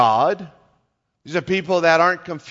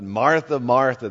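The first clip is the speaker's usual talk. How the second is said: words of love; 4 semitones lower than usual. Retold or imitated. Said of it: "there's depth to that statement".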